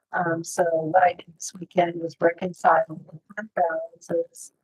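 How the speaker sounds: muffled underwater sound. Real, not acted. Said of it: "You sound like you're underwater".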